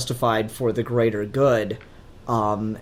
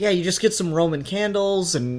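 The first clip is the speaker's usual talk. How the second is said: laughing; 4 semitones higher, 4 dB louder than usual. Real, not acted. Cohost joking about Roman candle wand effects, laughing. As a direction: joke told through a laugh.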